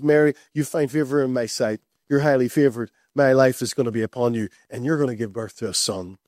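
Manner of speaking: a low, kindly heavenly messenger; gentle angel. Acted. Angel voiced lower and gentler.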